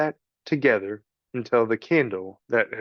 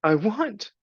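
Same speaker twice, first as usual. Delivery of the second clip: mock sob; 9 semitones higher than usual. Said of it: "sobbed Meg".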